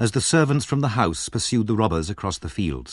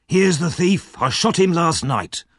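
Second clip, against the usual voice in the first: excited boast; 7 semitones higher than usual. A narrator's reading. Servant bragging about shooting the thief, excited. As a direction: brag about it, thrilled. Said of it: "he cried excitedly".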